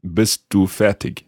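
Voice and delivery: careful, slowish non-native German; foreign-accented German, words set apart; learner's German accent. Shown as a demonstration. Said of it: "in my rather bad German accent".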